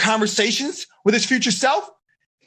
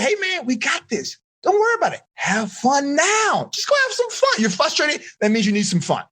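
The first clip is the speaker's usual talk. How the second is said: upbeat future self; 6 semitones higher than usual. Acted. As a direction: hype yourself up like a buddy. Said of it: "And my future self is like".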